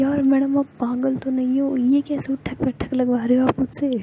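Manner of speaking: high, loud, outraged complaint; indignant protest. Acted. Member protests to madam, high and loud. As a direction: cry out in disbelief at a crazy order.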